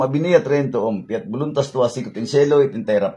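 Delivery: running, rote prayer chant; Latin prayer recitation. Real, not acted. Healer praying in Latin over a patient, steady recitation. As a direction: recite the prayers without letup.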